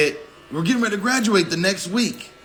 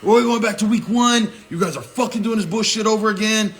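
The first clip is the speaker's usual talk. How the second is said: high-pitched mock drill sergeant yell; imitating an angry sergeant's telling-off; retold yelling; 5 semitones higher than usual. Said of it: "he yells at us".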